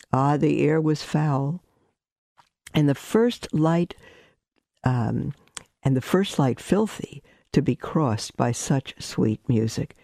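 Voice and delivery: unhurried storytelling voice; story narration. A narrator's reading. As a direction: savor the image as you read. Reads a story aloud.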